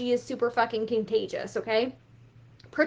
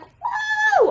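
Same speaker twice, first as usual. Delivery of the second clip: very high, loud cheer; shrill party woo; excited whoop; 7 dB louder than usual. Retold or imitated. Hyped quote on sales calls.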